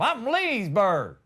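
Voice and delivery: slow, drawn-out rural Georgia answer; hillbilly Georgia local. Acted. Georgia local naming their county, slow country voice. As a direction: stretch the name like a proud local. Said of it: "Where are you from?".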